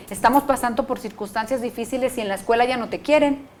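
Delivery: madre que culpa al padre, imitada a la ligera; madre quejosa imitada. Retold or imitated. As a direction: imita a la mamá que se queja. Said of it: "el padre alienador puede culpar". (madre alienadora culpando al papá, imitada)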